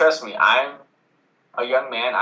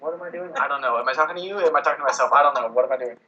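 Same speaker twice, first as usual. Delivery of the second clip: flustered rambling; 4 semitones higher, faster than usual. Retold or imitated. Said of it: "you start going like".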